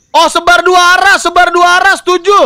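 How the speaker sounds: high, eager strategy call; excited call. Real, not acted. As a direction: call it out keen to the viewers.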